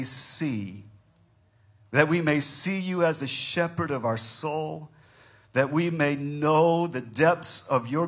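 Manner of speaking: rising prayer, building to full force; fervent prayer. Acted. Pastor praying over his congregation, fervent prayer. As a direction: pray over the congregation with growing fire. Opening prayer before the sermon.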